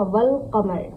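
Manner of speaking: "वल क़मर" with wa joined straight to l; silent alif. Shown as a demonstration. Teacher adding a waw before the word, l heard in "वल क़मर". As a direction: link "वल क़मर", keeping the l sounded. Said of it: "अलिफ को भी नहीं पढ़ेंगे".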